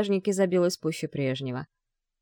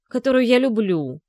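a loud, higher, angry outburst stressing я; angry blurt; 5 semitones higher, 6 dB louder than usual. A narrator's reading. Kirill angrily snaps back at his father about the girl he loves. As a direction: fire it back at him. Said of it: "зло выпалил Кирилл".

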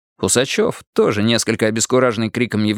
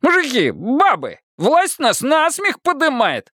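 rousing crowd call; slower than usual. A narrator's reading. Crowd agitator calling out.

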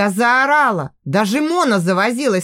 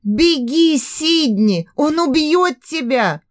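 a cracked, hoarse shout, pitched up; hoarse scream; 5 semitones higher, slower than usual. Acted. Heroine warns Sidney to run, hoarse desperate cry. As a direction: try to scream but only a rasp comes out. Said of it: "закричала, но вышла сипло".

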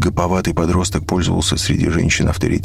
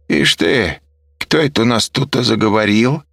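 mocking woman; 6 semitones higher, 3 dB louder than usual. A narrator's reading. Serafima mocking the waking man.

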